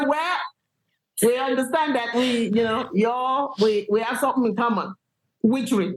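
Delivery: ordinary delivery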